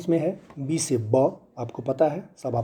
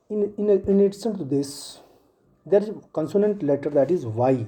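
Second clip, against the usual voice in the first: slow teaching; 2 semitones higher, much slower than usual. Shown as a demonstration. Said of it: "teacher addressing children".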